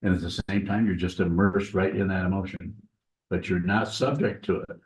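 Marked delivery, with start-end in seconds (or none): 3.3-4.8 "subject" leaned on a little, rest of the line plain; stress on subject. Shown as a demonstration. Teacher making a point to students, light stress on "subject". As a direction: give slightly more weight to "subject". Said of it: "with emphasis on the word subject".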